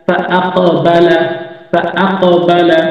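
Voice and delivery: ফা আক বালা drawn out slowly, syllable by syllable; teacher to students, slowly joining the letters; slow careful spelling-out. Shown as a demonstration. ধীরে ধীরে বানান করে পড়া.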